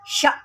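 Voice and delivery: शा cut with a glottal catch; jerked hamza. Shown as a demonstration. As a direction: snap the hamza in शा. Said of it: "हमज़ा साकिन होता है तो हम उसको झटका देकर".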